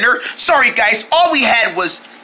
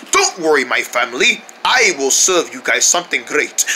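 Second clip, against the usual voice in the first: put-on British accent; 6 semitones lower than usual. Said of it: "British accent".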